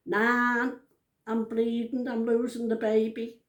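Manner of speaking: mildly worried caller, voice slightly lifted; mock alarmed. Granddaughter phoning her nan at night, mock alarmed. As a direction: lightly act out a worried plea.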